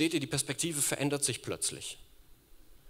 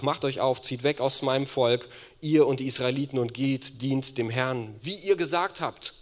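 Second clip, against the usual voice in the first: loud commanding pharaoh; Pharaoh's command; 2 semitones higher, 6 dB louder than usual. Acted. Preacher voicing Pharaoh sending Israel away, loud command. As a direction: order them out of the land. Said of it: "also der Pharao ... sprach".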